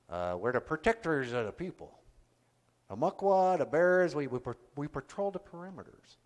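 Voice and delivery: lightly voiced bear character introducing himself; a hint of a sleepy bear clan puppet. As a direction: Muckwa the bear puppet talking about himself. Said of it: "when I first started doing him".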